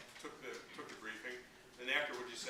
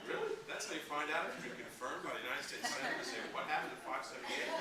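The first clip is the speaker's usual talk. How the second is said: retold disbelief, pitched up; incredulous; 4 semitones higher than usual. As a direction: repeat it back in mock disbelief. Retold reaction to odd instructions.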